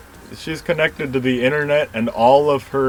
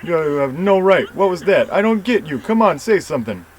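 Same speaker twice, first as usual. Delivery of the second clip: raised, indignant and hurt, higher pitch; angry demand; 5 semitones higher, 4 dB louder than usual. Acted. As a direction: push them hard to answer. Angry confrontation demanding an answer.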